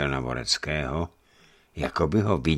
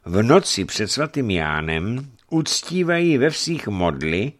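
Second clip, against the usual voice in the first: high, emphatic denunciation; disapproving bishop; 8 semitones higher, 6 dB louder than usual. Acted. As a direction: list the pagan sins with indignation.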